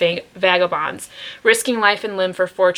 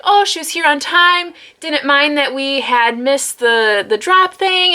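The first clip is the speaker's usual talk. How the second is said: much higher, sugary mock reviewer voice; imitating reviewer; 6 semitones higher than usual. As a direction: read their review in a put-on high voice.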